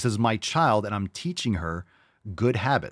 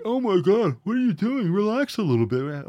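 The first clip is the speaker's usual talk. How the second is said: very high, louder caricature of a critic; mock exasperation; 11 semitones higher, 4 dB louder than usual. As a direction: imitate someone aghast, pitched way up. Mimics shocked critics.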